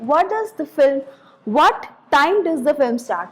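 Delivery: "what time does the film start" falling on START; falling question intonation. Shown as a demonstration. Teacher modelling a wh-question for learners, falling intonation. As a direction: ask it with the tone dropping on "start". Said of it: "the tone falls on the final stressed syllable".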